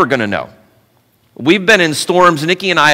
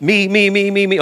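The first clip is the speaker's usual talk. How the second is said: eager volunteer; 5 semitones higher than usual. Acted. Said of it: "Some of you guys are like".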